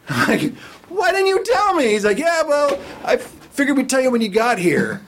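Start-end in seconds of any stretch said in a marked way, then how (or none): 0.9-1.9 much higher, incredulous complaint; exasperated. Retold or imitated. Retold exasperation at Frank. 2.2-5.0 higher, offhand shrug of a voice; casual Frank. Retold or imitated.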